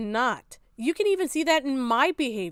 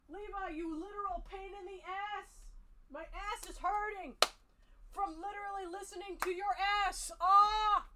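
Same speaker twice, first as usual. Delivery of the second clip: goofy moaning voice; 7 semitones higher, 9 dB quieter, slower than usual. Pretend.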